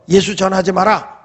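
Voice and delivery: mildly threatening command. Retold or imitated. Authorities warning believers not to preach Jesus, threatening. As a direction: forbid it with retold menace. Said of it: "막 위협을 가하면서".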